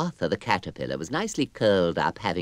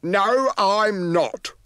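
high character voice; 12 semitones higher, 5 dB louder, much slower than usual. Acted. Character voice in story.

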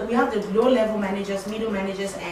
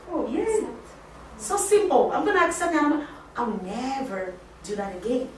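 delighted acceptance; 2 semitones higher, 3 dB quieter than usual. Retold or imitated. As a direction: squeal a happy little yay as if won over. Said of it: "If you talk in a nice way".

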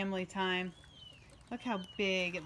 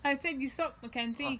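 put-on British accent; 5 semitones higher than usual. Mom keeps up mock British accent.

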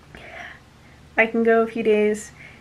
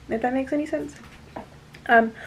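ordinary talk

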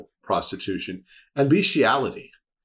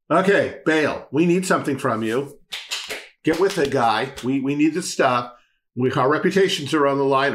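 higher, insistent plea to a god; urgent demand; 4 semitones higher, 3 dB louder than usual. Acted. Baal's prophets nagging their god for rain, urgent demand. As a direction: press an unhelpful god with mounting urgency.

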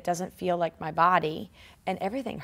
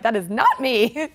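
slow, emphatic refusal; firm refusal; 4 semitones higher, 5 dB louder, slower than usual. Retold or imitated. Refusing to join skinny gym women, slow emphatic refusal. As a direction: plant each word slowly.

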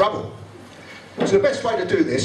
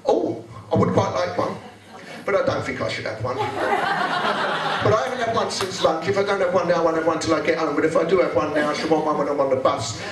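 hammed-up indecisive lady; dithering woman. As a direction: talk herself in circles over a tea. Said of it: "She says".

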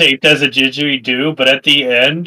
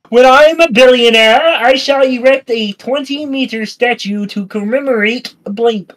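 grandiose voice; 7 semitones higher than usual. Pretend. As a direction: declare it like a vain tycoon. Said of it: "It's hard to talk in this voice".

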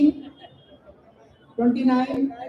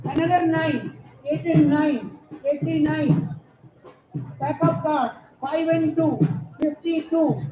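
calling out the numbers; sing-song number calls for the hall; bingo caller. Acted. Housie numbers called to players.

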